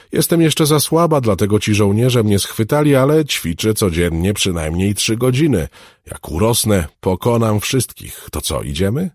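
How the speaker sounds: put-on high, insistent child's voice; determined little girl. Girl tells the alchemist about her training, determined. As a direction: declare it like a keen young girl.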